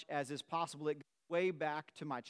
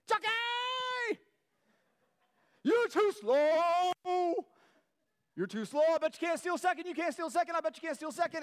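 heckling yell; 14 semitones higher, 8 dB louder, faster than usual. Retold or imitated. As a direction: taunt the ballplayer at full volume, dragging it out. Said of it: "I'm just nonstop on this guy".

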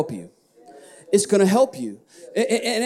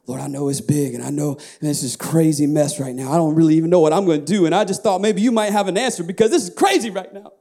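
anxious prayer; 3 semitones lower, faster than usual. Shown as a demonstration. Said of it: "but you're full of fear".

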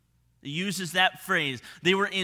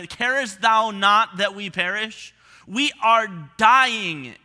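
pleading cry; 3 semitones higher, 7 dB louder, slower than usual. Retold or imitated. Disciples pleading with Jesus, sinking boat.

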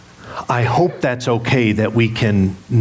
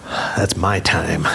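mock possessive; 5 semitones lower, much slower than usual. Protective of time with his wife.

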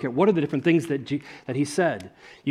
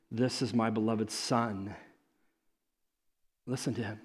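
hushed divine voice; 4 semitones lower, 6 dB quieter than usual. Retold or imitated. God's voice from cloud.

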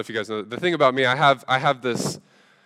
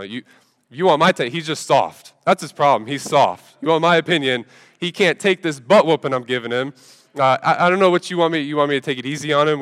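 louder, cocky and mocking sibling; defiant kid; 3 semitones higher, 4 dB louder than usual. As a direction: brush off mom like a smug kid. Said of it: "and I'm like".

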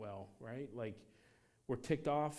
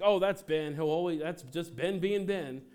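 loud, higher mock-breezy excuse; imitating a passive-aggressive churchgoer, higher and louder; 4 semitones higher, 6 dB louder than usual. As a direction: brush it off sweetly but loudly. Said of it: "passive-aggressive America".

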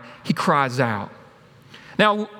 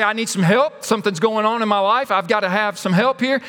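higher, urgent plea; acted cry for help; 3 semitones higher than usual. Voicing someone pushed down asking for help, mild cry. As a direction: plead to be heard, a mild cry out. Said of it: "You're trying to cry out".

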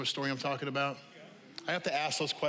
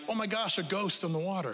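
mock freaked out; 4 semitones higher than usual. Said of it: "they got so freaked out".

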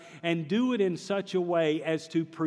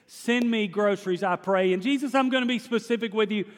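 loud praying; 3 semitones higher than usual. Retold or imitated. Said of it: "she starts praying really loud".

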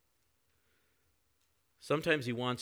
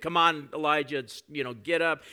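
mock pep talk; 5 semitones higher, 8 dB louder than usual. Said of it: "didn't give him a pep talk and said".

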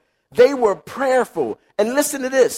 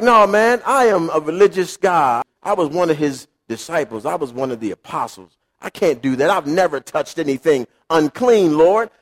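pious protest; 5 semitones lower than usual. Retold or imitated. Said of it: "And Peter's like".

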